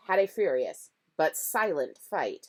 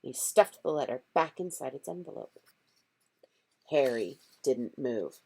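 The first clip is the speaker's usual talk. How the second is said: ordinary delivery, nothing marked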